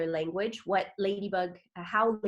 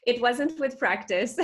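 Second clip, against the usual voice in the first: laughing through the words; 5 semitones higher, 4 dB louder than usual. Real, not acted. Host asks about her accent, she answers laughing. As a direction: chuckle it out, amused at the question.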